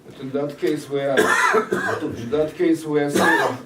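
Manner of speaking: loud laughing interjection; breaking in with a laugh; laughing loudly. Real, not acted.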